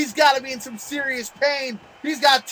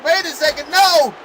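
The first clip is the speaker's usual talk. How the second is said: surprised; 2 semitones higher than usual. Real, not acted. Sudden reversal.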